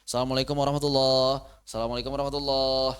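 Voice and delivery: swallowed syllables, fast; rushed salam. Shown as a demonstration. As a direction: gabble the salam carelessly. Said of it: "Aduh, bahaya ini". (salam terburu-buru yang salah)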